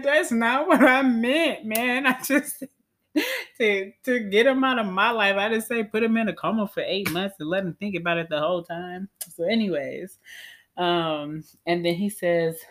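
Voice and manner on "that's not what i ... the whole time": high, loud, laughing protest; laughing plea. Retold or imitated. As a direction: laugh through the mock complaint to God. Pleading with God, laughing.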